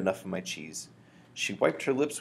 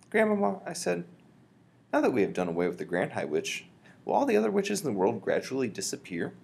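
put-on higher, eager little boy voice; higher kid voice, curious; young boy; 5 semitones higher than usual. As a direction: voice the mouse-boy asking his grandmother. Boy mouse character speaks.

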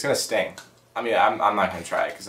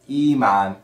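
backwards speech; 4 dB louder than usual. Shown as a demonstration. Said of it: "we're gonna say words backwards".

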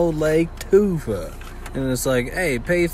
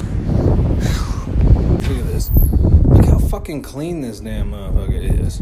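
loud hoarse whisper, thrilled; excited stage whisper; 8 dB louder than usual. Real, not acted. Vlogger shows off a spotless restroom in a loud excited whisper. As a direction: hiss it out, thrilled.

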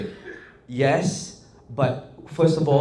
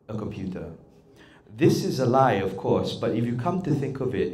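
measured scripted delivery, pausing between thoughts; deliberate phrasing, one thought at a time; one thought per breath; 2 semitones lower than usual. Shown as a demonstration. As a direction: take a fresh breath for each thought. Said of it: "I was doing one breath, one thought".

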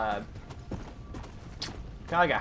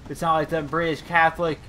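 Herbert Moon; 3 semitones higher, 3 dB louder than usual. Acted. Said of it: "What's his name? Herbert Moon?".

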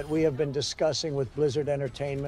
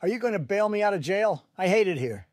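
higher, pleading voice from jail; whiny jailed Donald; 5 semitones higher than usual. Acted. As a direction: beg to be bailed out.

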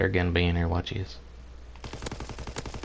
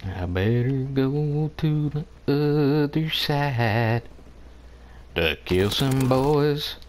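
slow drawn out; 4 semitones higher, slower than usual. Shown as a demonstration. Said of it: "repeated slower".

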